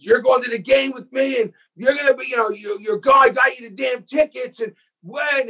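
imitating overblown audition yelling; mock shouting father. Director mocks other actors' shouting audition takes.

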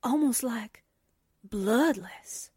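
hushed, whispered dread; awed whisper. Acted. Onlooker staring at a drained corpse, whispering in awe. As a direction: whisper it haltingly, appalled.

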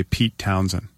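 saying it while holding the tongue; tongue held. Shown as a demonstration. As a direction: hold your tongue and say the name. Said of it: "It's when you hold your tongue and say".

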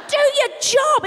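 high, punchy "Do your job"; emphatic. Real, not acted. To the cashier, loud emphatic do your job. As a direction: hit every word. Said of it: "repeat of earlier mutter, now loud".

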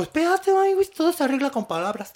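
imitating Ramón Gay. Retelling Ramón Gay soothing the angry ex-husband, high mock plea. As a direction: squeal it high, calming him down. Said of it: "Ramón Gay dijo".

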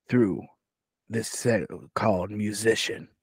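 measured, formal request in Sir Fuzzler's voice; lightly voiced gentleman, pausing between phrases; corrected character voice. Sir Fuzzler instructing a gnome servant about intruders, measured formal voice. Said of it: "that's not the voice I do".

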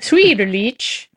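mock Swedish accent, slow; a hammy Swedish-Chef twist on Swederlich. Shown as a demonstration. Host mocking a surname in Swedish accent, hammed-up. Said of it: "I feel like I need to say that with a Swedish accent".

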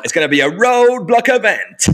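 high, booming garage MC announcement. Shown as a demonstration. Demonstrating nineties garage radio, high MC hype. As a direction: stretch it out like a pirate radio hype man. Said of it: "sort of U K garage voice".

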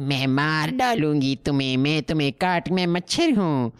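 mock evil mosquito. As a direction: ham up a villainous mosquito, fast. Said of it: "voice comes and it's obviously a".

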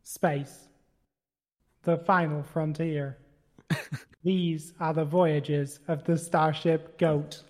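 slow, grand sci-fi intro voice; dramatic narrator. Acted. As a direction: announce it like a space epic. Star Trek style opening narration.

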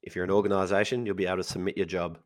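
hoarse, husky speaking voice. Real, not acted. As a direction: talk through a husky throat. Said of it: "with a husky voice".

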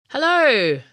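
loud, bright falling hello; calling out. A narrator's reading. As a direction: call out while landing in front of them. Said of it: "Sky called as he landed".

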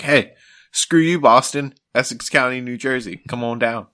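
hammed-up TV spot; mock ad pitch. Mock ad voice taunting Boston viewers. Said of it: "that was like".

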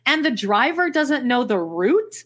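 slow, faltering French accent on "route"; a failed French accent. Shown as a demonstration. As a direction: try the French line carefully. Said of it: "never nailed it".

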